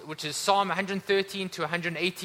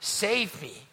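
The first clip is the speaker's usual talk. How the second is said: higher, slow drawn-out plea; crying out; 5 semitones higher, 4 dB louder, much slower than usual. Retold or imitated. Preacher voices believers' plea for salvation, crying out. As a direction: stretch out a cry for rescue. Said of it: "so that when we cry out".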